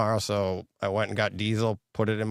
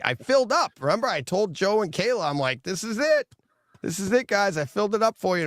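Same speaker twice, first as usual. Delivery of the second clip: mock confident self; 9 semitones higher than usual. Retells his own assurance to family.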